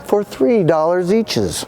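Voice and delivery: high eager huckster voice; lightly voiced showman sales pitch; salesman pitch. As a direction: lure them in like a carnival barker. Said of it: "and he said".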